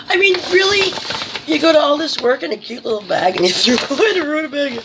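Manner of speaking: high, giggly, amused protest; real laughing rant about the gift; laughing disbelief. Real, not acted. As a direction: let laughter bubble under the words.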